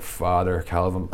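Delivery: slow, solemn fake priest, a light hint only; somber priest. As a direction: play a pious priest giving his name, slowly. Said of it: "So I just walked up really somber".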